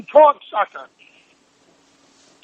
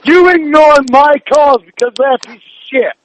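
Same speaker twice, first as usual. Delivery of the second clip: angry demand; 3 semitones higher than usual. Real, not acted. Girlfriend on the phone demanding attention, angry. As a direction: make him stop and listen. Furious partner on phone call.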